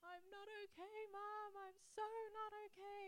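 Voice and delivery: high-pitched mock crying voice; imitating upset son. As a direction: act out a distraught boy. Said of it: "he was so upset, crying and crying".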